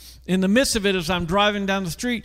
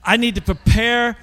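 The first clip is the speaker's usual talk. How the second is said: anxious inner voice; 5 semitones higher than usual. Retold or imitated. Panicked inner voice before meeting.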